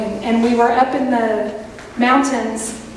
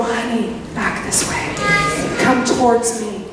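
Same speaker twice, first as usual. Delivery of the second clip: comforting shepherd voice; 4 semitones lower than usual. Acted. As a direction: call the lost sheep home tenderly. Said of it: "it's a comforting poke".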